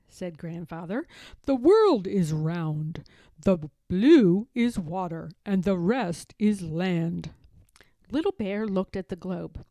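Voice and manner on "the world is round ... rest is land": slow grandpa voice. Acted. Grandfather explains globe slowly.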